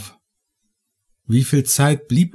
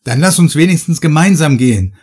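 demanding; 4 semitones higher, 4 dB louder than usual. Acted. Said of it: "forderte ich".

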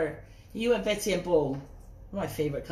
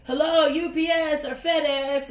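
high, slow, polite stranger at the door; mock courteous doorstep greeting; fake delivery guy greeting; 7 semitones higher, 5 dB louder, slower than usual. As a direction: put on a sweet delivery-man voice to trick her. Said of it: "and be like".

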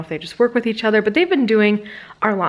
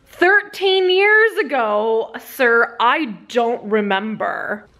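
slow, emphatic mock exasperation; exasperated; much slower than usual. Dog owner retelling her answer to a pushy stranger, exasperated.

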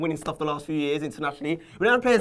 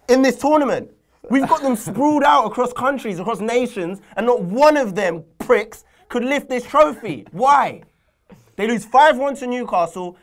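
hammed-up indignant ranting, higher and louder; theatrical fan rant at Reese; mock outraged rant; 4 semitones higher, 5 dB louder than usual. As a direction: rail at your friend about the unfairness. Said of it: "I haven't done this in a while".

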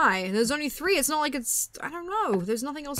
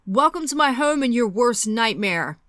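bad Freddy Krueger voice; 4 dB louder, slower than usual. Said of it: "that was a terrible Freddy impression".

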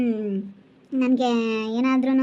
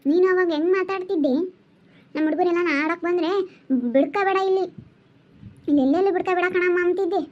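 angry; 4 semitones higher than usual. Acted. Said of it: "ಯಾಕ್ ಹಂಗ್ ಸಿಟ್ಟಾಗ್ತೀಯ".

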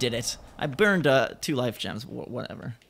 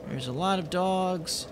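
quiet drawn-out remark; 6 dB quieter than usual. Real, not acted. First remark, then yelled repeat.

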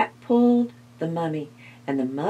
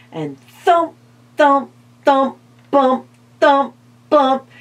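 bouncy narration; 5 semitones higher, 5 dB louder than usual. A narrator's reading. Bouncing sound effects.

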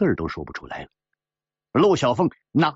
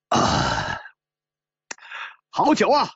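loudly; 13 semitones lower, slower than usual. Acted. Drinker praising the wine after gulping it, loudly. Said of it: "大声地说".

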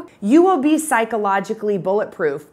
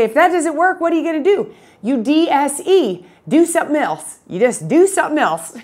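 a fond, higher-pitched attempt at a Southern accent; lightly imitating a Southern calculus teacher, higher pitched; Doctor Kaplinger's Southern accent; 5 semitones higher than usual. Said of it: "I can't even impersonate him, but I will attempt".

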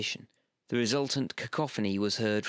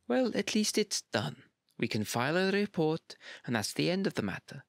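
cheering up; 7 semitones higher than usual. A narrator's reading. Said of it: "she tried to cheer him up".

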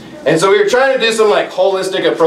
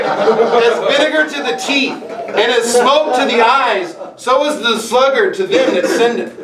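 laughing, slowed reading; 2 semitones higher, slower than usual. Shown as a demonstration. Preacher recalling wife's vinegar gulp, slow laughing reading. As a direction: read the verse slowly through laughter. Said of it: "it's just like".

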